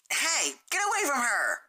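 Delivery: high, loud yell from behind; angry shout. Acted. Rainbow Dash yelling at Sunset to get away. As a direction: bark it to stop them.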